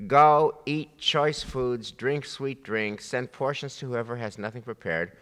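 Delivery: slow, savoring each treat; slow coaxing offer. Retold or imitated. Teacher voicing Ezra urging mourners to feast, slowly. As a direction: tempt them gently toward the feast. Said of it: "And then he says".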